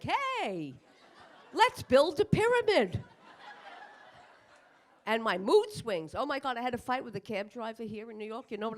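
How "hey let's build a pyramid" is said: higher, louder, manic chipper voice; sudden burst of energy. Retold or imitated. At night to herself, a sudden manic chipper burst. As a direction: bounce up wide awake. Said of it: "And then at night, I'm like".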